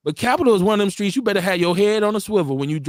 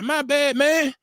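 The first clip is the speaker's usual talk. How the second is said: meek apology; 6 semitones higher, slower than usual. Retold or imitated. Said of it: "he closed the door like".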